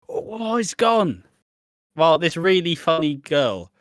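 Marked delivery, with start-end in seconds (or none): 0.1-1.2 high, slow mock amazement; mock magic reveal. A magician showing the vanished finger, high slow mock surprise. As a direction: gasp it slowly as if the thing vanished. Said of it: "when you do a magic trick".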